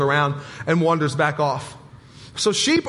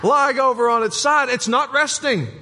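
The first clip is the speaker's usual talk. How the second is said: higher, put-on British accent, playful; mock British accent; 4 semitones higher than usual. Pastor playfully quoting a UK farmer in a British accent. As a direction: slip back into the British video guy's accent. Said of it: "I don't know what accent that is I'm using".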